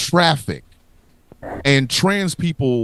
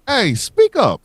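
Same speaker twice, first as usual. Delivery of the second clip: high challenging call; 7 semitones higher, 3 dB louder than usual. Pretend.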